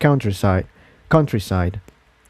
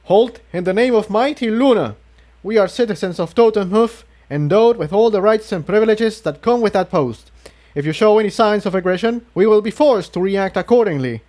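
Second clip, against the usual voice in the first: stiff recited speech; 9 semitones higher than usual. A narrator's reading. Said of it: "as though he was reciting something from memory".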